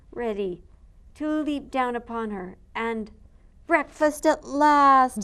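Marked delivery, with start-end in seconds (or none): 3.7-5.2 slow, loud growly ogre line; ogre muttering. Acted. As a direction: gloat over breakfast like an ogre. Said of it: "he muttered".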